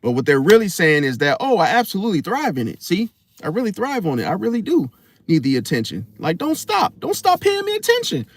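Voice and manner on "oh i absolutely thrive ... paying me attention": high, gushing and eager; mock attention seeker. Very high gushing mock, Leo woman wanting attention. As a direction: beg for the spotlight.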